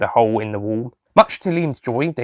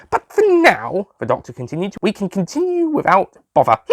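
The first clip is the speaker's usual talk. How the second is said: doctor voice; 8 semitones higher than usual. Acted. Doctor continuing.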